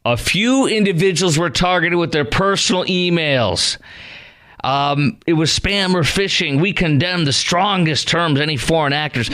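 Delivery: a hint of a sneering press-release voice; mocking spokesperson quote. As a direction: read the statement back in mock officialese. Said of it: "spokesperson from Kamala said".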